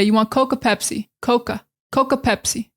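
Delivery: "Coke or" run together as "Coca", Boston accent. Shown as a demonstration. Teacher demoing a Boston phrase. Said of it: "They might say".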